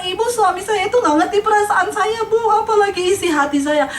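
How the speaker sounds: high-pitched mock grievance; complaining wife. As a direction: act out a wife's plaintive complaint. Acted wife complaining to counsellor.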